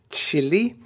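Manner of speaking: put-on Chile in a light, jokey Tuchel-style accent with a rising tune; mock Tuchel accent. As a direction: imitate how Tuchel says Chile, lightly. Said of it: "what are you doing that weird accent for".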